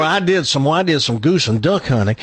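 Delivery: mimicked Southern accent, lightly teasing. Co-host teasing a friend's hunting tale, mock Southern accent. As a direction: echo him in a put-on Southern accent. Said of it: "he's getting the Southern accent".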